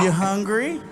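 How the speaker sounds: mock baby-talk question; coaxing parent-to-toddler lilt. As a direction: ask as if to a two-year-old. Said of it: "He talks to me like I'm two".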